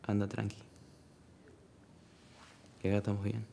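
soft, calming send-off; gentle reassurance. Acted. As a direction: quietly let them know they can go. Reassures the one lying there.

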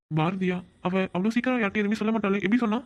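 can't believe she told anyone; surprised disbelief. Acted. Surprised Bharathi told him. (ஆச்சரியத்துடன் வேகமான கேள்வி)

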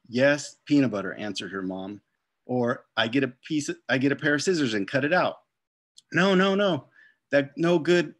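lively read-aloud to children, voicing each character; story narration. A narrator's reading. Author reads picture book aloud.

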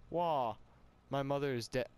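ordinary talk, nothing marked

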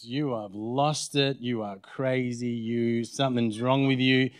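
slow, drawn-out scolding of oneself; self-reproach. Retold or imitated. Pastor berating himself after an awkward phone call, self-reproach. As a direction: spell out each accusation slowly.

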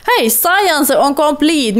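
slow, lifted call-out; drawn-out happy shout-out; excited announcement. Real, not acted. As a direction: announce it with glee. Game event announcement.

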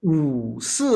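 teacher modelling; model wu si. Shown as a demonstration. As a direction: demonstrate wu si calmly. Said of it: "How to change with this method?".

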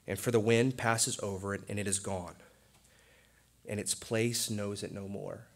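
solemn, measured Bible reading; scripture reading. Acted. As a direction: read it like holy scripture. Reads scripture aloud.

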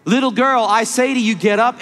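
a preacher's powerful raising cry; commanding call. Acted. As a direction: call her up with full authority. Jesus commands the dead girl.

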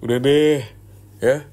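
loud, exasperated stop; sharp cut-off. Acted. Cutting off the girlfriend's pleading with a loud snap. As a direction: slam the conversation shut.

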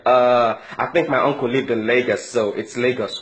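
unsure, guessing the answer; lightly voiced clueless diaspora kid; mock clueless Nigerian. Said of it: "You ask a Nigerian that claims".

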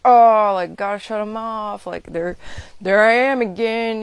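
fed up, wanting to shut it off; mock annoyed. To viewers, acting out shutting feelings off as loud exasperation.

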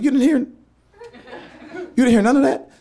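almost shouting it down the phone; incredulous yell. Retold or imitated. Exasperated son yelling at his dad on speakerphone. Dad didn't hear the story.

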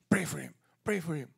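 hushed urgent whisper of the Spirit; a whispered inner prompting. Retold or imitated. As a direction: breathe it like a voice inside. Holy Spirit's voice in the retelling.

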